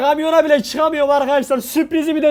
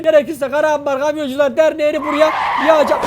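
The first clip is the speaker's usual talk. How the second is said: shouted threat. Acted. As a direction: yell the threat out. Furious after being cheated.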